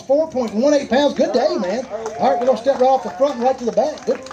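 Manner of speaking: ordinary talk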